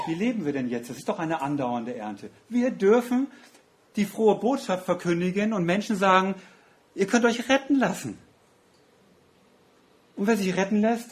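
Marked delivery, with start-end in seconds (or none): 2.5-11.1 fervent proclaiming. Real, not acted. Preacher proclaiming salvation.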